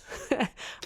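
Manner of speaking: short, soft high chuckle; quick soft laugh. Real, not acted. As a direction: chuckle lightly at your own example. Laughs at own hypothetical.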